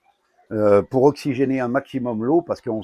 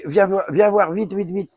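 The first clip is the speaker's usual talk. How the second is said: yelling across the room; 9 semitones higher, 4 dB louder than usual. Real, not acted. Calls partner over urgently.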